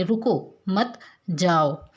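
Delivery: रुको, then मत, then जाओ, slowly spaced out; slow, separated words. Shown as a demonstration. Teacher repeating the command to stop, रुको मत जाओ slowly broken up. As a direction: draw out रुको मत जाओ with gaps. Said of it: "रुकने के लिए".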